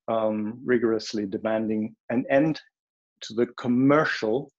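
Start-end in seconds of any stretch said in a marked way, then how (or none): 3.2-4.5 COMMERCIAL set apart and stressed; emphatic stress. Real, not acted. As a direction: lean firmly on the word "commercial". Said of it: "I really want to emphasize that word".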